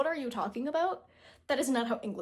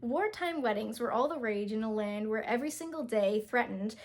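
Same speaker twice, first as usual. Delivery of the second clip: steady read of "Wartime weddings", "emphatically" said right; second try reading. Shown as a demonstration. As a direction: read it again, clean this time. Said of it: "let me try again".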